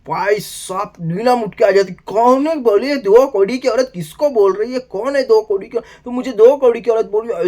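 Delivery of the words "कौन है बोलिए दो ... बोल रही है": indignant outburst. Retold or imitated. Neelam confronting Farhana over the insult, indignant. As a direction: fire the question back, insulted.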